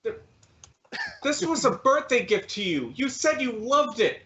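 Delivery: hurt pleading. Acted. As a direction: remind a lover, sounding let down. Rejected suitor pleads about gift.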